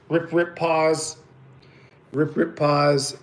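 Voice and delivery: slow, spaced-out rhythm, pausing at the end; slow rhythmic cadence. Shown as a demonstration. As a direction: count out the retrieve rhythm slowly. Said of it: "So cadence for the jerk bait is".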